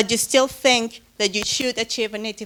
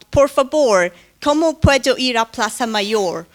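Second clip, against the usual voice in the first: a louder, hammed-up English-speaker accent on the Spanish question; 7 dB louder than usual. Lecturer imitating an English tourist asking directions in Madrid, mock English accent. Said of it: "poor imitation of, of accents".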